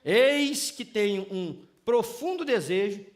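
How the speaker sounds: slow, over-formal declaration to the wife; lightly mocking grandiose suitor; mock flowery courtship. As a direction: ham up the old-fashioned gallantry. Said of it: "fala assim".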